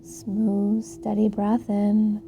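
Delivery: calm, unhurried yoga cueing with long pauses; soothing body-scan guidance, leaving room to breathe; guided yoga meditation. Acted. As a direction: guide them gently into the pose.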